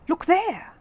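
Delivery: loud, high wild cry. A narrator's reading. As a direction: cry it out wildly. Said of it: "cried Paddington wildly".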